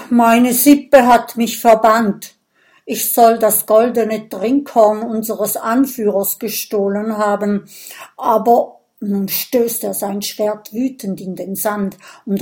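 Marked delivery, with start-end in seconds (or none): 0.1-8.8 loud, sullen complaint. Acted. Banished Viking tells the friends, sullen and bitter. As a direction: grumble it out, hurt and bitter. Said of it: "sagt verdrossen".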